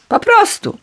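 high, pleased-with-himself answer; proud. A narrator's reading. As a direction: shrug it off with pride. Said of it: "odparł z dumą Dedal".

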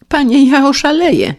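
high, loud desperate wail; Paleta wailing. Acted. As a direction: cry out at your wits' end. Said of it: "zajęczał nieszczęsny Paleta". (głośny, rozpaczliwy lament)

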